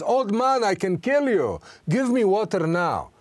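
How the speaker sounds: hammed-up threat from a thirsty soldier; threatening soldier. Soldier threatens kiosk owner.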